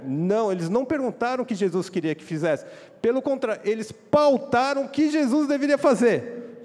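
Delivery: high, loud impassioned preaching. Acted. Pastor preaching to the congregation about the disciples, high and loud. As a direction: hammer the point home to the congregation.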